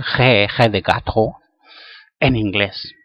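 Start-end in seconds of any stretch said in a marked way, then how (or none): none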